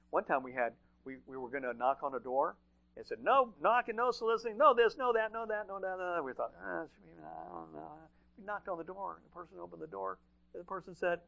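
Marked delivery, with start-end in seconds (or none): 3.2-6.2 high, insistent sing-song rattle of refusals; mock forbidding list. 6.6-8.1 slow, soft reluctant mumble; half-voiced misgiving; hesitant doubt. Acting out their doubt at the door.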